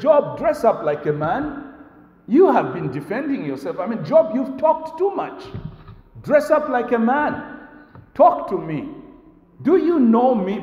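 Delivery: God confronting Job. Acted. Preacher voicing God as he challenges Job, forceful and commanding. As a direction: speak as God calling Job to account. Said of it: "God looks at Job ... and says".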